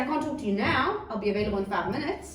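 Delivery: reasonable put-off, lifting on "now". Shown as a demonstration. Parent promising time in five minutes, measured deferral. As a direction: put them off briefly, staying available. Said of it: "You can say".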